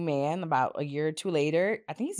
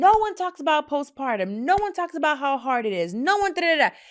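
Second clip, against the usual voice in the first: very high, loud, shrill screaming; 9 semitones higher, 6 dB louder than usual. Upset at a woman's remarks, quote what she said, imitating someone screaming. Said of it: "she was screaming".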